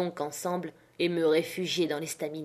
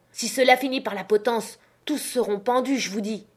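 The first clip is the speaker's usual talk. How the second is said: heated threat; 4 semitones higher than usual. Acted. Captain yelling in quarrel.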